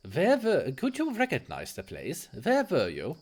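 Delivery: lightly voiced German doctor, polite. Doctor introducing himself to a patient, polite light German accent.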